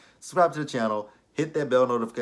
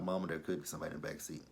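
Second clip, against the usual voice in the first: mock scared kid; 4 semitones lower, 9 dB quieter, much faster than usual. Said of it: "I'm like".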